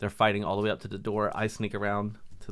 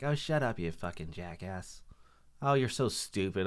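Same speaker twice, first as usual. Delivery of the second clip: contemptuous wife; 2 semitones lower, 5 dB quieter, slower than usual. Retold or imitated. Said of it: "degrading stuff to him".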